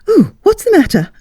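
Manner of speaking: a friend jolted by the scream; high, urgent worried call; alarmed. A narrator's reading.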